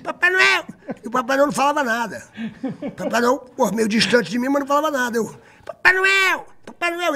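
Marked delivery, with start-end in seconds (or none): 0.0-0.6 put-on Papai Noel called out much higher, like an excited kid; eager child calling. A young fan calling Santa backstage, high and eager. 5.6-7.1 put-on Papai Noel called out much higher, like an excited kid; eager child calling. A young fan calling Santa backstage, high and eager.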